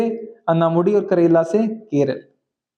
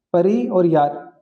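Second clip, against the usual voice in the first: slowed down; much slower than usual. Shown as a demonstration.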